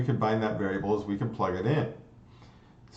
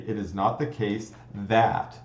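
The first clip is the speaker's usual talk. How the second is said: logic ease reading. Shown as a demonstration. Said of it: "we usually say".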